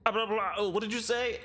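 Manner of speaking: high, loud mock indignation; hammed-up offended guard; affronted guard. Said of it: "he'll turn into a frown".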